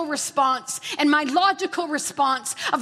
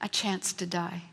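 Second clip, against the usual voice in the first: soft whisper; 5 semitones lower, 7 dB quieter than usual. Retold or imitated. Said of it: "the Lord whispered to her".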